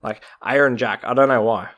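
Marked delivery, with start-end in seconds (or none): 0.4-1.0 "Iron Jack" said in a light put-on Scottish accent; mock Scottish accent. Shown as a demonstration. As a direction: try "Iron Jack" as a Scotsman would say it, half-joking. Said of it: "should be said in a Scottish accent".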